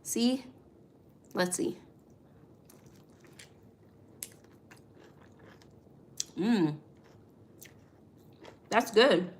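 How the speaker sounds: slurping juicy fruit. Real, not acted. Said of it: "Sorry for the slurping".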